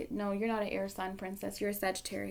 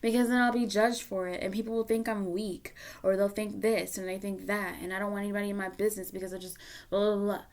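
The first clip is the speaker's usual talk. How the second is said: loud, rushed, defensive protest; mock the inner excuses; hammed-up defensive rant; imitating defensive listener; 8 dB louder than usual. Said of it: "You'll probably feel like".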